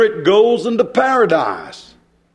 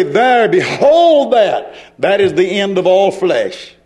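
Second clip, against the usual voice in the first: fervent preaching. Acted. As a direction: proclaim it with stretched key words. Preaches at full force.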